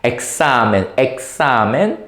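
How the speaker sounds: "examen" with an S sound in the X. Shown as a demonstration. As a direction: model "examen" carefully, the X softened to S. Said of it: "the X must sound like ... the S".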